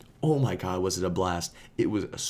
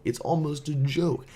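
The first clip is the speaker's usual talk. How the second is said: "joke" lifted higher in amusement; the teller marveling at the fake name, higher and amused; higher amused repeat; 7 semitones higher than usual. Shown as a demonstration.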